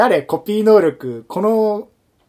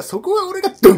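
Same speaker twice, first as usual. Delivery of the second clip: much higher and louder, a hammed-up yell; mock shout; 14 semitones higher, 6 dB louder than usual. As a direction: blurt it like a kid in a fight. Kid shouting in the quarrel. (大声で叫ぶ真似)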